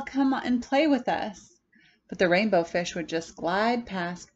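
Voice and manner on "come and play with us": high, bright invitation to play; eager call. Acted. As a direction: beckon a friend to come play. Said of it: "they would call".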